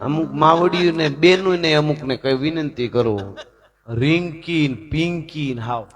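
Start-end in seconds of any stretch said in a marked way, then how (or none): 3.9-5.8 soft, slow, laughing over the names; amused aside, said through laughter; laughing mockery. Real, not acted. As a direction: chuckle at silly pet names. Mocking silly names, laughing.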